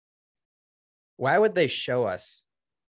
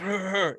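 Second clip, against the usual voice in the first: playful macho grunts, pitched up; mock tough grunting; 10 semitones higher than usual. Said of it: "I gotta act tough".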